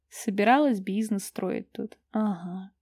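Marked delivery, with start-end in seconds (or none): none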